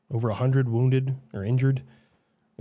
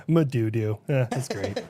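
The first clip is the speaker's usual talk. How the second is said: normal talking voice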